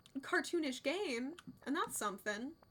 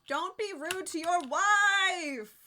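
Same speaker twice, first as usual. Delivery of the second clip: slow, loud mock scolding; indignant mock reprimand; playful scold; 5 semitones higher, 6 dB louder, much slower than usual. Real, not acted. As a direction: tell him off with mock outrage. Scolding a game character.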